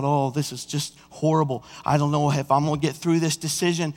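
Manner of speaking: soft, despairing inner voice; despairing thought. Retold or imitated. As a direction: think it quietly, torn and hopeless.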